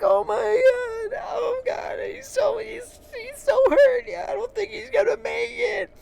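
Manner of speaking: sky-high, drawn-out mock sobbing; hysterical crying. Woman fearing the cat won't make it, mock hysterical crying. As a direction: blubber in a hammed-up high wail. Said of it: "she's losing her mind, and she's crying".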